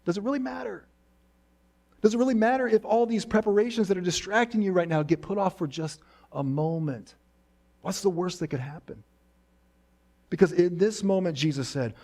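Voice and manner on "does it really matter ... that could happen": reassuring. Pretend. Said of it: "He tells Martha".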